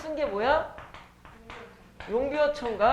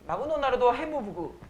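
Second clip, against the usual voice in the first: lightly mimicked Japanese accent on "마그노 나루도"; a hint of Japanese accent, extra vowels after the final consonants; 5 dB quieter than usual. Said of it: "일본어 흉내내는 되게 쉬운 유형". (가벼운 일본어 억양 흉내)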